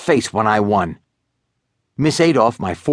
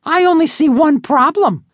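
high, bratty little sister; 4 dB louder than usual. Acted. Sister voiced in story.

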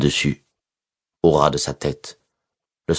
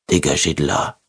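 thick-tongued, feeble mumble; a slurred, powerless order; slurred weak voice. Acted. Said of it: "d'une voix pâteuse, bien trop faible".

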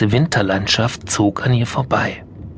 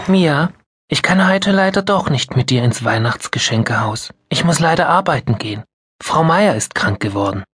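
a mother's voice, higher and hurried, apologising; apologetic mother; 5 semitones higher than usual. Acted. Mother telling Mia she must work, apologetic. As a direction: break the news gently but quickly.

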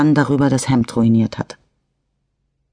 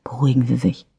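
reassuring; 3 dB quieter, faster than usual. A narrator's reading. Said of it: "beruhigte ihn Franza".

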